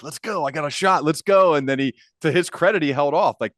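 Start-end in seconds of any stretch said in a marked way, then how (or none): 0.0-1.5 hyped up. Retold or imitated. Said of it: "He's probably like".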